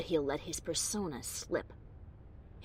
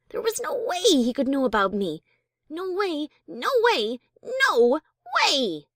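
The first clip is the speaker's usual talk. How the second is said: rising panic, louder each no way; panicked denial; 6 semitones higher, 8 dB louder than usual. Acted. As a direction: spiral into panic.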